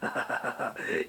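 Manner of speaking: low, unvoiced tough-guy chuckle; a mock heavy's quiet laugh; soft menacing huff of a laugh; Danny Trejo laugh. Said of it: "That's my Danny Trejo laugh".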